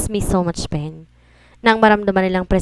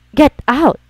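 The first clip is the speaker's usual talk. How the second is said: angry shout; 7 semitones higher, 5 dB louder than usual. Acted. Husband orders rival to leave.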